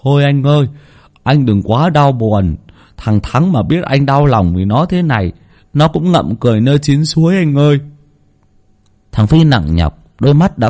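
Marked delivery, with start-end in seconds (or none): 0.0-7.8 pat his shoulder and soothe him for the crowd; mock consoling. A narrator's reading. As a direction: sidekick pretending to console his grieving boss. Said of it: "vỗ vai đại ca mà an ủi".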